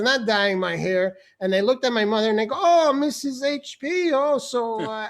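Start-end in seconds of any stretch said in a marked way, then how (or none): 2.6-5.1 lightly hammed-up polite neighbour; drawn-out, higher mock greeting; neighbour's greeting. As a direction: play a chatty acquaintance greeting someone. Acting neighbours greeting his mother.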